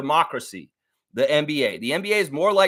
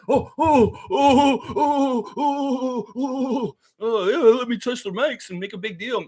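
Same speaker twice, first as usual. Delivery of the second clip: high, silly put-on voice gloating over a big show; mocking impression; 7 semitones higher, slower than usual. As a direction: ham up a smug player playing to the cameras. Mocking Rudy Gobert touching mics.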